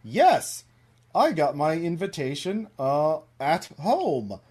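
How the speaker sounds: lilting voice of a little cartoon animal; cartoon animal chat. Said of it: "and says".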